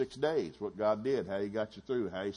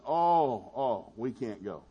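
mock dismay; 5 dB louder, much slower than usual. Spies report back to the people, in mock dismay. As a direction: mimic a defeated moan, falling away.

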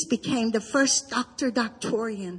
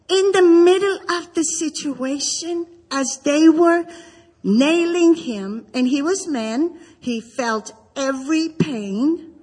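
tearful; 2 semitones higher, 3 dB louder than usual. Real, not acted. Preaching the crucifixion, voice breaking.

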